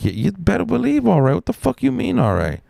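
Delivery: high, indignant holler; retold angry retort. Crew member scolding the worker who gave in, high indignant yell. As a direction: throw it back at him, outraged.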